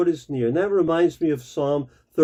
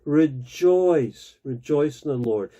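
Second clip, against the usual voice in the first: rejoice, rejoice in the Lord with weight on rejoice; for emphasis; 3 semitones lower than usual. Shown as a demonstration. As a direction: lean on each rejoice to drive it home. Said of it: "he says it again for emphasis".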